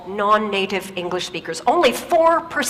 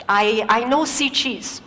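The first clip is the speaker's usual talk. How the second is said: put-on Korean accent. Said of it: "he says".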